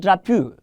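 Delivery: "drapeau" mispronounced as dra-pyoo; wrong pronunciation. Shown as a demonstration. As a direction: say "drapeau" with an OO sound at the end. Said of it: "that thing is not pronounced drapeau".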